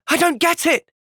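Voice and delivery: high, exasperated cry; frustrated outburst. Acted. Young fighter bursts out at the group, frustrated. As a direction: throw the words out in frustration.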